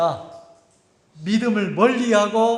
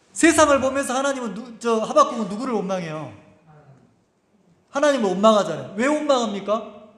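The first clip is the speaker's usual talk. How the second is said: ordinary talk, nothing marked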